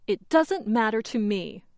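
mildly rude, uncaring reply. Shown as a demonstration. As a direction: show you don't care, understated. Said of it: "and it sounds rude".

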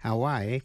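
"Hawaii" in three parts, ha-WAI-ee; three syllables. Shown as a demonstration. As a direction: sound the final ee separately in "Hawaii". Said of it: "phát âm làm ba syllables". ("Hawaii" đọc thành ba vần ha-WAI-i)

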